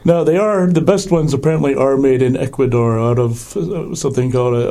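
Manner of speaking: hoarse from a cold; rough voice, sore throat; gravelly voice. Real, not acted. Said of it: "so you sound a little gravelly".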